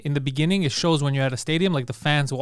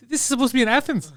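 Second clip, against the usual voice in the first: laughing disbelief; 8 semitones higher than usual. Retold or imitated.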